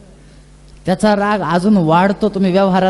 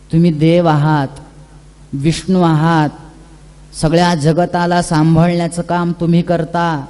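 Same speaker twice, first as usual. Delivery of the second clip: lower, gentle coaxing voice; sweet soothing words; 3 semitones lower than usual. Acted. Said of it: "फार गोड वाक्यामध्ये वीरभद्राने समजून सांगितलं". (गोड, शांत समजूत घालणारा आवाज)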